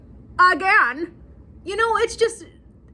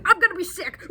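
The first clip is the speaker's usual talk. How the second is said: imitated queasiness; 6 semitones higher, 4 dB louder, faster than usual. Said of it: "she's like".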